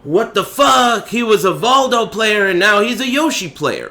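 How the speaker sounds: hammy French onlooker voice; French accent. Retold or imitated. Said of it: "and they were like".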